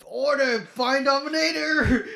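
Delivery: high, slow, hammed-up command; commanding character voice. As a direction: call it out like an anime hero. Character's command in retold scene.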